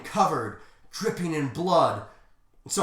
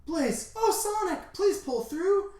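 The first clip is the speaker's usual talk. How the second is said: very high falsetto wail; hammed-up weepy heroine; tearful plea; 13 semitones higher than usual. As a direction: beg a dying friend in a squeaky voice. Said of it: "Blaze starts to cry".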